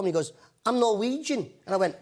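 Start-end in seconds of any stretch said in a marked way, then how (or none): 0.7-1.5 a Norwegian's Scouse-flavoured English; lightly put-on Scouse; Scouse accent. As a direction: answer in an imitated Liverpool accent. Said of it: "in a Scouse accent".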